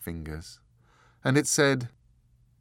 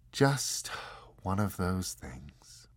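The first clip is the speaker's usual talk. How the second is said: softer, slow regretful sigh; quiet regret; slower than usual. Acted. The angel after its outburst, quiet and regretful. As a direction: let it fall away with deep regret. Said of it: "very quietly and with deep regret".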